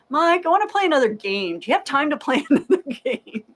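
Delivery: high-pitched mock pestering, breaking into laughter; eager pleading. Player pestering a friend for another game, eager pleading. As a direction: beg like an excited kid, hammed up. Acting out pestering Mike to play.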